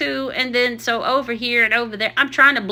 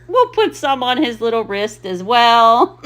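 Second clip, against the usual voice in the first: laughing almost to tears; words wobbling with laughter; 4 dB louder than usual. Real, not acted. Vlogger laughing at her own voiceover, laughing. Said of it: "I'm still dying laughing".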